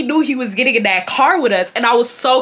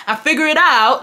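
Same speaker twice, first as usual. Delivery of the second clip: higher-pitched attempt at UK African English; UK African accent; 5 semitones higher than usual. Mimicking his repeated answer to her, UK African accent. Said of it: "his U K African accent".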